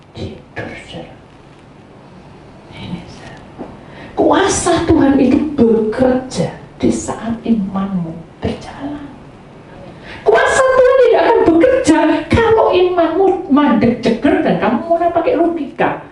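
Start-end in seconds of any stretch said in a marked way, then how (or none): 4.2-16.0 preaching. Acted. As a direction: preach it with building fervour. Preaching to congregation.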